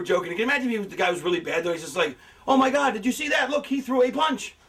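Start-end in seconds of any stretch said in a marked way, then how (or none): 2.5-4.5 high-pitched excited mock play-by-play; impassioned commentator. Imagining a bad commentator calling a punch, excited. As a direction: gasp over a mundane move like an announcer. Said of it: "so much passion in it".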